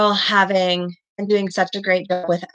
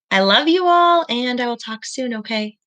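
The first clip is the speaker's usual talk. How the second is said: bright goodbye; 3 semitones higher than usual. Real, not acted. Teacher says goodbye to class.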